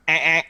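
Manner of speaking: two short vocal error beeps; imitated buzzer. Terminal warning the dog boy, imitated buzzer. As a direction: imitate a machine's warning buzz.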